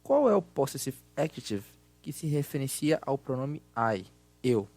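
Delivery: loud, projected teacher voice; class lesson voice. Acted. Teacher runs a recorded grammar exercise, loud and projected.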